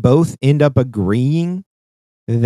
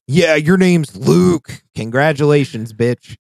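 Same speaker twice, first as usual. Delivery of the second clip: higher, louder, slow sarcastic drawl; sarcastic mockery; 4 semitones higher, 5 dB louder, slower than usual. Player mocking the name Luke, slow sarcastic sneer. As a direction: sneer the congratulations slowly.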